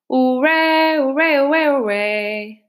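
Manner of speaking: high, loud acted cheers; crowd cheering. Weasels cheering at their banquet, high rowdy hoorays.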